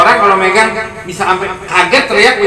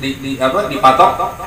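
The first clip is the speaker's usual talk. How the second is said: ordinary talk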